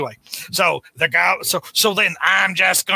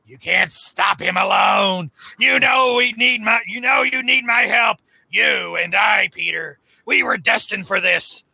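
acted Norman quote. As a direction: ham up a scheming Norman. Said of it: "so Norman's going".

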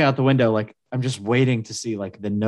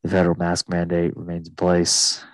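a lightly voiced, lower captain reading the rules; airline pilot; 5 semitones lower than usual. Still mocking the pilot, lightly voiced lower captain. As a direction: drone through the cabin announcement. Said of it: "talk like".

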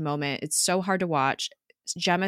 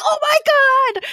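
much higher, louder squeal of disbelief; re-enacting her mind being blown; 10 dB louder, much faster than usual. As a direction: relive the shock like a thrilled fan. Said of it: "I was like".

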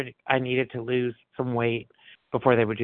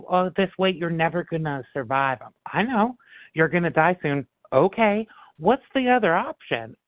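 higher, mock-dire quoting of everybody; mock doom voices; 6 semitones higher than usual. Quoting everyone who warned her, raised mock voice. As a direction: echo their gloomy warnings in a raised voice. Mimicking people's doom warnings.

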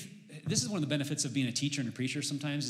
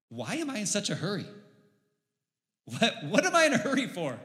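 self-questioning; 6 semitones higher than usual. Retold or imitated. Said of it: "I just stop and I think".

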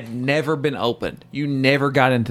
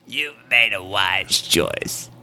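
mock wise host; 5 semitones lower, slower than usual.

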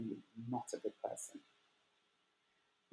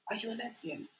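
hushed question; 8 semitones higher, 10 dB quieter than usual. Retold or imitated. Friends quietly asking her if she is gay. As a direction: drop to a hushed, conspiratorial ask.

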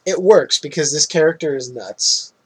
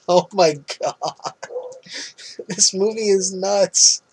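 amazed; 4 semitones higher, slower than usual. Real, not acted. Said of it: "amazed disbelief".

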